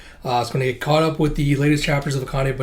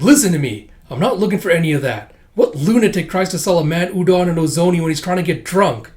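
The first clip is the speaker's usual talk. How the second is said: raised-voice acted rant; irritated; 4 semitones higher, 4 dB louder than usual. Customer arguing with udon cook, irritated rant. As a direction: tell him off in mock outrage.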